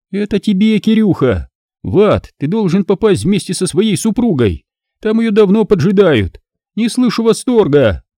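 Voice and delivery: high, gloating taunts; openly mocking Alisa. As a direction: jeer at him, delighting in it. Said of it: "Откровенно издевалась Алиса".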